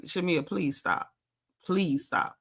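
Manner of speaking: slow, soft pleading please stop. Retold or imitated. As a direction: quietly beg her to stop. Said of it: "she was like".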